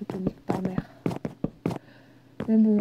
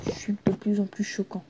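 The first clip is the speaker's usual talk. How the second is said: whisper; 6 dB quieter than usual. Real, not acted. Guilty aside to viewers.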